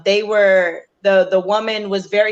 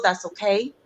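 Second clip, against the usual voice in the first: whisper; 4 dB quieter than usual. Retold or imitated. Telling dying son it's okay.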